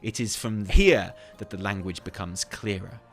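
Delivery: measured, weighty storytelling with emphatic swells; dramatic in-character reading; theatrical lore narration. Acted. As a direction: narrate like a musing scholar, weighing each word.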